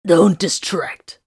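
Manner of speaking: slow sharp whisper; cutting short. A narrator's reading. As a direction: hush her curtly under your breath. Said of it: "cut her short".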